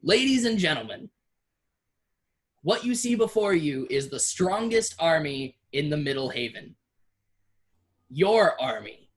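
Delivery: addressing the crowd. Acted. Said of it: "he yells to the crowd, he addresses them".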